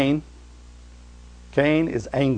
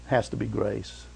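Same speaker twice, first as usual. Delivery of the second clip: a softer, lower echo of the line; soft repeat; 5 semitones lower, 8 dB quieter than usual. Shown as a demonstration. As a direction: repeat it quietly to land it.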